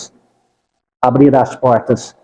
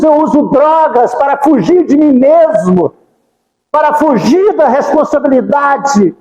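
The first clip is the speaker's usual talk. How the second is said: higher, fervent pleading to Jesus; pleading prayer; 10 semitones higher than usual. Shown as a demonstration. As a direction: beg Jesus for help from the heart. (oração suplicante, mais aguda e fervorosa)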